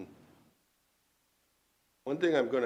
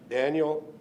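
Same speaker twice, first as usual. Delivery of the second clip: mock parental summons, loud on the name; lightly voiced parent calling a child in, name first, then quick order; imitating a parent; 5 dB louder, faster than usual. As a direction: call "Daniel" out like a parent, then rattle off the rest. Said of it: "it's like a parent going".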